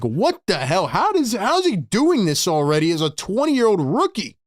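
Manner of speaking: acted disbelief with swooping pitch; incredulous reaction. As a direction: swoop up and down in amazement. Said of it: "where you're like".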